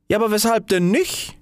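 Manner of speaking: high, innocent question; a small firework asking brightly; little fire ball. Acted. Little fire ball questions the rocket, high and innocent. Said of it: "rief eine kleine Feuerkugel aus".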